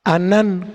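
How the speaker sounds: "anán" stressed on its last syllable; "anán", weight on the final -nán; stress on second A. Shown as a demonstration. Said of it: "con acento en la segunda A".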